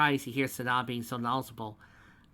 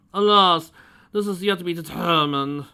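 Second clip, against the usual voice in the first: lightly voiced self-important connoisseur; fussy posh old man; pompous gentleman; 7 semitones higher, 11 dB louder than usual. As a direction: talk down to them grandly.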